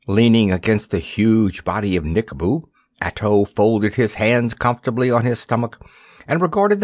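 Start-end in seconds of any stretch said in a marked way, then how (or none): none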